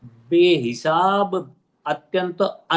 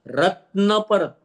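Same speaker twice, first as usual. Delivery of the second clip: रत्न said slowly, weight on the न; stress on न; 3 semitones higher, much slower than usual. Shown as a demonstration. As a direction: lean on the न of रत्न, drawn out. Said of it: "न पर जोर दिया". (रत्न में न पर जोर, धीरे-धीरे)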